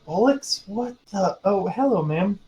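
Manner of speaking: high-pitched, puzzled character voice; surprised greeting. Acted. Adventurer walking over to friend and noticing the landlady, surprised. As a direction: start baffled, then catch yourself politely.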